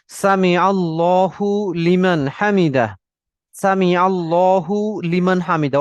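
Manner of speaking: slow, careful "সামি আল্লাহু লিমান হামিদা"; drawn-out teacher's model, "লিমান" as its own word; model pronunciation. Shown as a demonstration. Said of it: "repeat উচ্চারণ করব".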